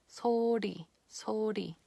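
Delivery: "소리" whispered, the ㄹ a soft tap on the roof of the mouth; whispered Korean demo. Shown as a demonstration. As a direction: breathe "소리" out with a gentle flap. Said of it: "really gentle and soft touch".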